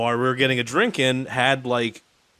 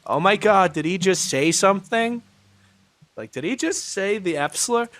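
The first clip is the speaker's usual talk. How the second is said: shocked, clutching pearls; a scandalized Karen; 7 semitones higher than usual. Retold or imitated. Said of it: "the Karens echoing".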